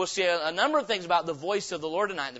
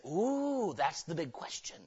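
hushed, mock-puzzled scientists; 2 semitones lower, 7 dB quieter than usual. Preacher mocking scientists, soft and puzzled. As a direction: toss it off like a stumped expert. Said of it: "the scientists say".

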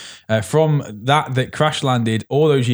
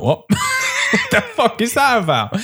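laughing incredulous shout; 13 semitones higher than usual. Retold or imitated. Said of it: "everyone came out of the cinema being like".

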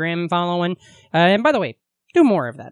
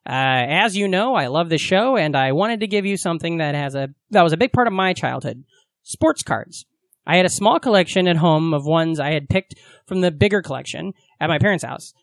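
letter reading. Real, not acted. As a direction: read it out to the room, deliberately. Reads listener's letter aloud.

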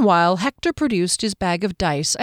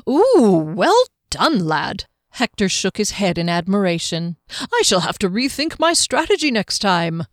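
admiring halfling. Acted. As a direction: cheer the winner genially. Hector praising Juggler.

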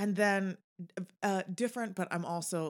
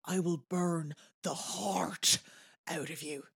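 lightly menacing, slow movie-villain quote; Moriarty; slower than usual. Retold or imitated. Quoting Moriarty's great line from Sherlock, mildly menacing. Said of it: "done as if he is possessed by demons".

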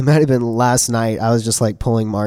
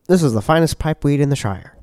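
a hint of funny old British voice; mock Shire accent, somewhat British; leprechaun-like British accent; 3 semitones higher than usual. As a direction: put on a loose British-Scottish lilt. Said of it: "leprechaun-sounding, somewhat British voice".

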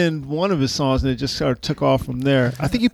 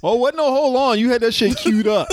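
mock urgency; 7 semitones higher than usual. Acting out eager slow-jam preparation.

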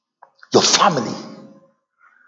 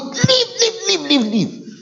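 high repeated leave, dying away; fading command; 3 dB quieter, slower than usual. Retold or imitated. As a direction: order them out, then let it fade.

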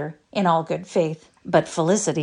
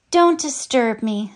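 dreamy; 6 semitones higher, 4 dB louder, slower than usual. A narrator's reading. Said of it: "said the Story Girl dreamily".

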